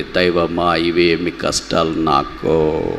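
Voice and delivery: slow, drawn-out plea to God; mild lament. Acted. Sufferer asking God about their hardships, mild lament. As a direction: draw out a weary appeal to heaven.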